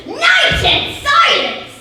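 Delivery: high, drawn-out theatrical cry; loud stagey outburst of frustrated searching; exclaiming. Acted. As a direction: exclaim it slowly, leaping up in pitch. Puck searches the dark forest.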